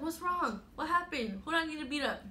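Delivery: high-pitched, urgent imitation of a friend; concerned friend. Homegirl ready to defend her crying friend, mock urgent concern. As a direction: act out a protective friend firing questions. Voicing protective friend on call.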